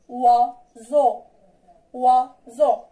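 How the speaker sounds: "Oiseau" said wa-zo with the "oi" as wa; model pronunciation. Shown as a demonstration. Teacher demonstrates "Oiseau" to the class, clear model. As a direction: pronounce "Oiseau" clearly as wa-zo for repeating. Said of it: "On prononce oiseau".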